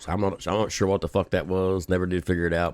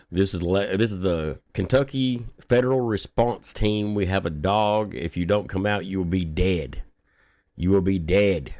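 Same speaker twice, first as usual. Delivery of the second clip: loudspeaker cop voice. Retold or imitated. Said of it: "it sounded like he said".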